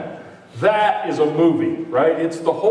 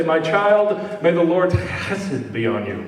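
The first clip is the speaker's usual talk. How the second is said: a hint of a solemn deep blessing voice; lightly mock-pronounce a solemn blessing. Parent blessing a child to sound deep, mock solemn voice. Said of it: "if you wanna sound deep".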